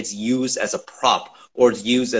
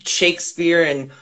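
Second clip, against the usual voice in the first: higher, self-satisfied parody of theater bosses; smug mock voice; 4 semitones higher than usual. Actor mocks white theater bosses, smug mock voice. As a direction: play it pleased with themselves, a bit raised. Mocking theater casting choices.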